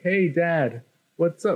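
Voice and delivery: a hint of a son calling to Dad; retold cheery son. Son greets dad in retelling.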